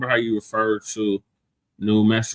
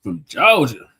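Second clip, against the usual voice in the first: put-on southern accent; 4 semitones higher, 5 dB louder, slower than usual. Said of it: "he would like to hear your southern accent".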